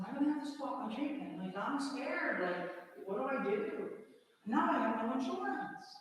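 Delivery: high, urgent, scared plea; retold scared outpouring to a helpline; scared pleading. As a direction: plead with the phone lady, frightened. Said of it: "while I'm a blubbering mess".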